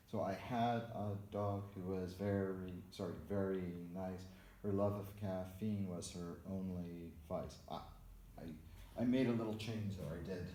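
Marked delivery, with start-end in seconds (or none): 0.2-2.7 measured reading that places stressed syllables such as "had" and "dog" on the beat; metrical recitation. Shown as a demonstration. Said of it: "all the syllables are already in the correct place". 3.3-7.6 rhythmic reading with "nice" and "vice" landing on the beat; metrical recitation. Shown as a demonstration. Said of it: "all the syllables are already in the correct place".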